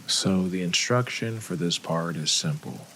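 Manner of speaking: calm meditation guide with long pauses between phrases; unhurried, measured guided-meditation voice. Acted. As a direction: ease listeners into relaxing, leaving room to breathe.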